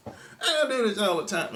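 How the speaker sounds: squeaky high mock quote with a giggle; mock girly voice. Vlogger mocking a woman's excuse in a high coy voice.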